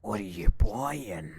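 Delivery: put-on slow, stretched merchant accent; Merchant voice impression. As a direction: say it like the hooded merchant. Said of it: "I love him".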